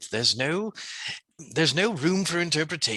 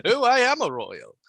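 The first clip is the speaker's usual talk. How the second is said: high, very slow posh royal voice; mock royal; 10 semitones higher, 4 dB louder, slower than usual. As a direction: boast of royal birth in a hammed-up posh voice. Playing a royal.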